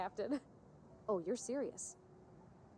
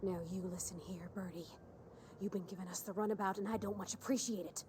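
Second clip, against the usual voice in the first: calm psychopath; 4 dB quieter than usual. Pretend. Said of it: "do what Agent Khan would do".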